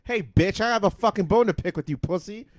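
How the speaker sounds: high, loud furious yelling; angry shout. Retold or imitated. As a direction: yell at the delivery driver. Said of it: "When my Uber driver just drops".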